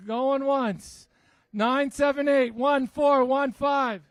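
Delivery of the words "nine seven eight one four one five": announcer calling out ticket digits; raffle caller. Acted. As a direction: read the number out, then repeat slowly. Raffle number repeated.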